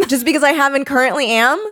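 fast, mocking boyfriend impression; mocking cheater voice. Joins mocking the ex.

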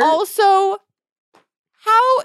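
high, loud exasperated also. Real, not acted. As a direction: blurt it out in disbelief. Exasperated outburst.

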